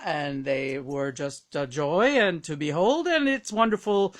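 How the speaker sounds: lightly voiced courtly guest, measured delivery; Tony Randall. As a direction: reminisce with a touch of theatrical courtesy.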